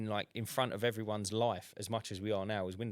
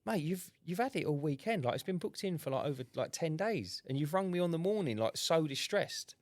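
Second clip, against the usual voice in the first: incredulous inner voice; 6 semitones higher than usual. Retold or imitated. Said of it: "And I thought".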